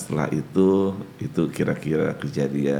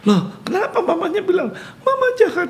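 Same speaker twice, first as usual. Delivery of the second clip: laughing. Retold or imitated. Laughing retelling child's words.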